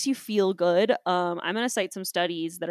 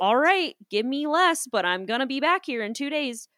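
defiant comeback; 5 semitones higher than usual. Retold or imitated. Mike's defiant reply.

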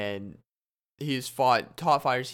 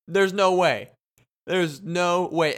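stunned disbelief; 5 semitones higher, 7 dB louder, slower than usual. Retold or imitated. Starstruck fan spotting a fighter, rising disbelief. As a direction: pitch shooting up in disbelief, slow.

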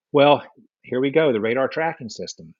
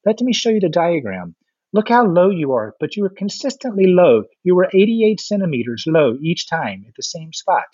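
higher-pitched mimicry of French pilots; imitated French pilots; 5 semitones higher than usual. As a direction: play a pilot pointedly explaining the evidence. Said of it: "some of the French pilots".

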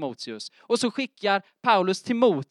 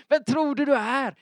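laughing mock scoff; 8 semitones higher than usual. Mocking reaction, laughing.

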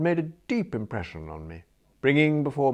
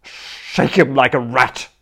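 pleading bully; 3 semitones higher, 7 dB louder than usual. Acted. Spode pleading, bargaining.

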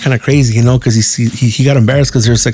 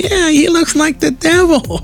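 put-on high, slow, blunt child's voice; little kid voice; slower than usual. Little boy telling the dad he looks like the devil, in a high, slow kid voice. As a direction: say it with a kid's innocent bluntness.

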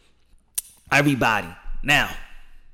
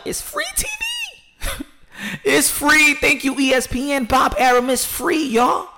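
excited shouting; 12 semitones higher, slower than usual. Real, not acted. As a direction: yell it out like big news. Hyped shouting free TV news.

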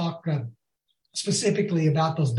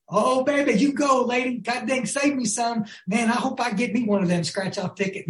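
flirting; 4 semitones higher than usual. Retold or imitated. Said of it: "flirting with the lady".

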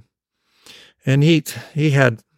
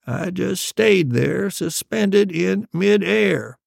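slow, drawn-out, raised storyteller voice; dramatic storytelling dad; 7 semitones higher, much slower than usual. Acted. Dad spinning his tale for his child, dramatic and slow. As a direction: stretch out each word in a higher pitch.

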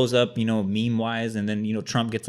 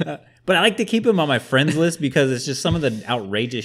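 laughing; 4 semitones higher, 6 dB louder than usual. Real, not acted. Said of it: "laughing at own story".

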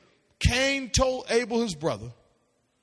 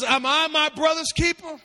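indignant question, pitched up; Cain defiant retort; 6 semitones higher than usual. Acted. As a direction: throw the question back defiantly. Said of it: "He says".

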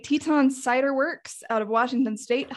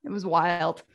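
whisper; 4 semitones lower than usual. Real, not acted. Gossiping about spoiled Denise.

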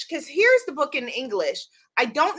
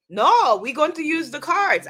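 light, badly faked French accent; mock French accent, loud first word; horrible French accent; 3 semitones higher, 4 dB louder than usual. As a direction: put on a clumsy French accent. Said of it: "That's a horrible French accent".

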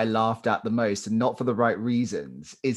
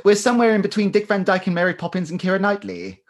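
hammed-up posh English accent, higher and louder; mock posh British; 8 semitones higher, 5 dB louder, faster than usual. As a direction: play a frantic plummy Brit. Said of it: "talk like her for the rest".

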